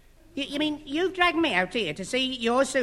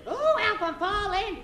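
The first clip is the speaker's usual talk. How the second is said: panicked; 9 semitones higher, slower than usual. Acted. Falling from the window.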